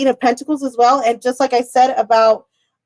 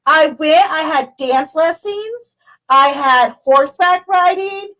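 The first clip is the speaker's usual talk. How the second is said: higher, slow listing voice; imitating Melissa; 4 semitones higher, slower than usual. Quoting Melissa's busy day, high and slow. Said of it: "She's like".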